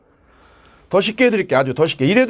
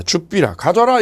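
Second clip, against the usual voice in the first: Gyeongsang dialect; 3 semitones higher than usual. Retold or imitated. Threatener ordering the donor in Gyeongsang dialect. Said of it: "이 경상도 말로".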